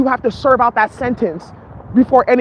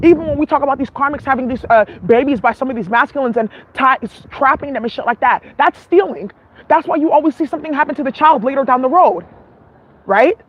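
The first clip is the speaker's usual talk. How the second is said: muffled voice; talking through a covered mouth. Real, not acted. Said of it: "I'm muffled".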